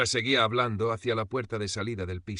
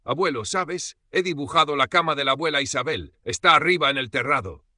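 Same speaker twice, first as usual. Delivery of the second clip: put-on high, loud, eager child; spontaneous six-year-old; 6 semitones higher, 7 dB louder than usual. A narrator's reading. Granddaughter tells grandfather about the drawing, spontaneous and eager. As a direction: blurt it out like a little girl. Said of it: "con la espontaneidad de sus seis años".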